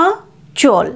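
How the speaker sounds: আঁচল with the আঁ clearly nasalised; আঁচল, টেনে নাসিক্য আঁ; nasal আঁ. Shown as a demonstration. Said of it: "আয়ের উচ্চারণ এখানে নাসিক্য".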